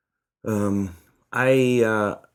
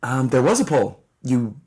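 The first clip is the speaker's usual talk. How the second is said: a wistful, deflated telling; sad. Real, not acted. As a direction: let disappointment color it. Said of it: "You sounded so sad".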